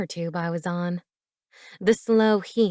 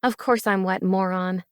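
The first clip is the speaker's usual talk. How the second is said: retorting. Acted. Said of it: "I retorted".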